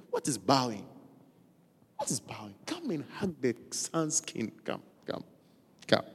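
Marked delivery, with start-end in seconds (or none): 2.0-2.5 hushed, breathless question; soft unvoiced whisper of Absalom. 2.7-6.0 softly coaxing come, come. Acted.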